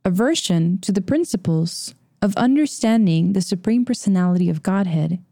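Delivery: measured, phrase-by-phrase reading; deliberate pace, drawn out at the end; slow careful re-reading. Shown as a demonstration. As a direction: read it again slowly for the listeners. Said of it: "Say that again slowly".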